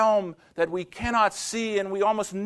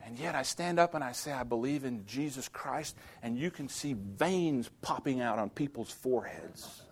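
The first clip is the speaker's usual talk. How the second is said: hushed; 6 semitones lower, 12 dB quieter than usual. Real, not acted. Preacher drops to hush.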